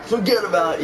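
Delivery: imitated New Yorker accent. Gamer showing how real New Yorkers talk, New York accent. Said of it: "the real New Yorkers are like".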